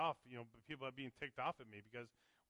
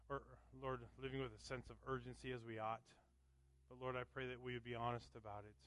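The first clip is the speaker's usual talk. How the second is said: prayer. Acted. Leads a prayer.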